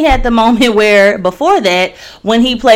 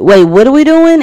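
confused surprise; 6 semitones higher, 7 dB louder than usual. Retold or imitated. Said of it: "Tori was looking at the camera like".

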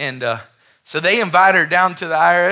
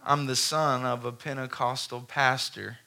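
soft, lower reassurance; reassuring boss; 3 semitones lower, 7 dB quieter than usual. Retold or imitated. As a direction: gently comfort her. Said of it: "He said".

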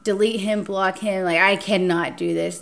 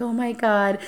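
fake distraught; 4 semitones higher than usual. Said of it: "I act so distraught".

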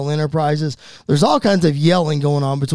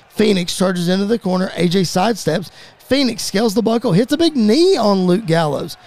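brisk match call, rising on big moves; play-by-play; 4 semitones higher than usual. Acted. Commentator calling a six-man tag match, play-by-play. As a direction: punch up each finishing move.

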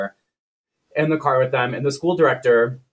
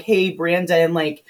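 high, sugary mom voice; mom calling out; 5 semitones higher than usual. Retold or imitated. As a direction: call sweetly to your son across the yard. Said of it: "she calls out to her son".

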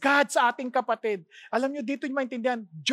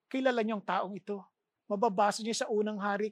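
ordinary talk

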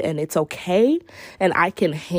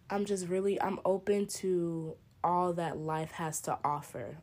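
soft reassurance; 6 dB quieter than usual. Real, not acted.

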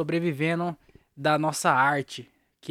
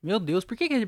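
usual speaking voice

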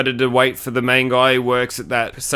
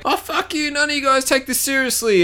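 much higher, squeaky mock girl voice; hammed-up high girlie voice; mock fed-up girl; 13 semitones higher than usual. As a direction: whine it like an offended teen girl.

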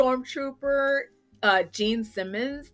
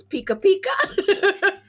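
high, slow squeaky Pikachu call; a little kid playing Pikachu, laughing; kid imitating Pikachu; 9 semitones higher, 3 dB louder, slower than usual. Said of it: "And the little kid goes".

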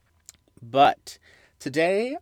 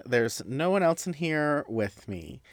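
sarcastic; 4 semitones higher than usual. Real, not acted. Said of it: "that sounded like sarcasm".

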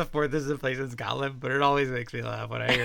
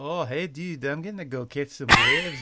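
lightly Scottish surfer; 4 dB louder than usual. Pretend. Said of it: "What would a Scottish surfer sound like".

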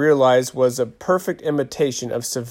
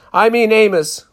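mock swooning; 9 semitones higher, 7 dB louder than usual. Giggly game of mock swooning.

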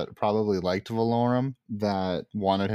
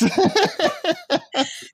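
loud laugh; 4 dB louder than usual. Real, not acted. Big laugh at own joke.

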